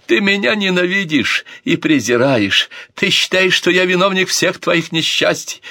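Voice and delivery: put-on a drunk prince yelling accusations at his sister; drunken shouting. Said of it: "пьяно выкрикивал принц Альфонсо".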